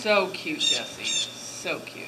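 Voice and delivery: gushing. Real, not acted. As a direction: squeal over something adorable. Gushing over cute kids.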